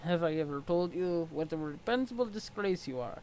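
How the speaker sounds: stiff, formal troll sneering at his rival; a lightly voiced haughty troll. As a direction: look down your nose at him. Equius troll voice.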